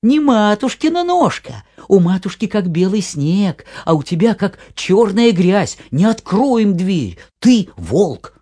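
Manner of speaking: put-on high loud children's shouting. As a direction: yell it like frightened little kids. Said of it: "да как закричали".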